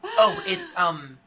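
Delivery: high sing-song hostess voice; bright hostess voice. Acted. Host character brightly explaining the tea.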